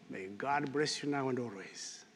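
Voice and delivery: soft benediction. Acted. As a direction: whisper the final amen. Closing benediction.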